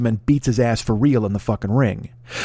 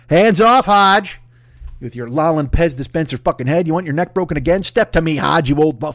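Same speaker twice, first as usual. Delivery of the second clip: calling him out; 4 semitones higher, 3 dB louder than usual. Pretend. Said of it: "this is why I'm calling him out".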